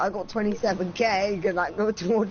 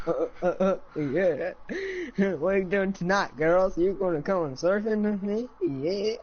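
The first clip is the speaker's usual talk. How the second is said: surfer dude voice. Pretend. Surfer voice invites girls.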